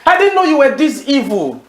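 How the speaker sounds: scolding quote. Acted. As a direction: lift the pitch on "didn't" in reproach. End of Paul quote, repeated.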